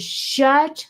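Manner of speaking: drawn-out, deliberate shut the fuck up; slow fed-up retort. Retold or imitated. Bank rep wishing she could tell the caller off, slow and fed up. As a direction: spell it out slowly, fed up. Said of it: "all I wanna say is".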